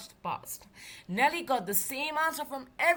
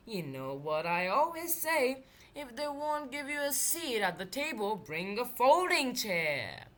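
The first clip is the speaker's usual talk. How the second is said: friendly. Acted. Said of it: "said a friendly voice".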